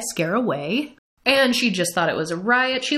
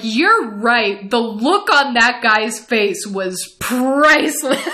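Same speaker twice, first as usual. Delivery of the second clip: laughing through tears; 2 semitones higher, 5 dB louder, slower than usual. Retold or imitated. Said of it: "laughing, crying in, in tears and hysterics".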